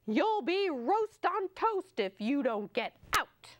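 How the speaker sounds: hammed-up cook chasing animals out; angry cook's shout. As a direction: bark it at the animals half in fun. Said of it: "an angry shout".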